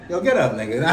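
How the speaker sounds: squabble in mock outrage, half laughing; mock confrontation. Podcast host joking about fighting their therapist, mock outrage.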